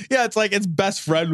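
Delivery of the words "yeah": ordinary talk, nothing marked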